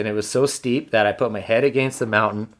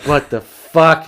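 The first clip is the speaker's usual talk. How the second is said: drawn-out, higher-pitched retold disbelief; exasperated disbelief; 5 semitones higher, 4 dB louder, much slower than usual. Hunter dreading explaining this to family, exasperated disbelief. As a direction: stretch it out as if at a total loss. Retelling his despair on walking back.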